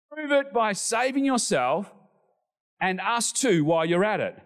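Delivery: mock shout. Shown as a demonstration. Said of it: "It's almost like a shout".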